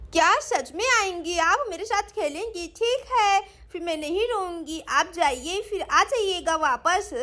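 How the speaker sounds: put-on small child coming round, hopeful; lisping child asking for reassurance; hopeful little girl. (उम्मीद भरी छोटी बच्ची की आवाज़)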